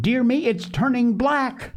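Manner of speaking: high-pitched alarmed exclamation; dismayed exclamation. A narrator's reading. Polly seeing the cake is burning, dismayed.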